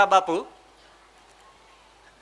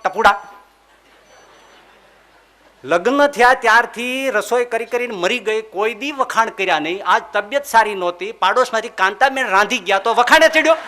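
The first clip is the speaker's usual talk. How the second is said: a retold, moderately louder scolding of her husband; sharp retold complaint to her husband, only somewhat louder; angry scolding wife; 2 semitones higher, 4 dB louder than usual. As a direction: scold Tapuda like a fed-up wife who is never praised. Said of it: "અંબાએ છીકોટો નાખ્યો".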